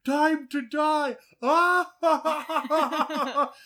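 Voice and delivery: high, loud, slow hammed-up villain yell; over-the-top Cage villain shout; Fu Manchu trailer line. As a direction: bellow it like a campy trailer villain. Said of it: "him just going like".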